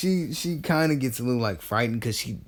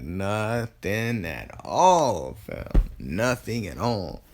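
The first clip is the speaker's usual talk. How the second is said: smug drawl; much slower than usual. Acted. Konan teasing Naruto after smirking, slow coy denial. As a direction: stretch it out slowly, all innocent.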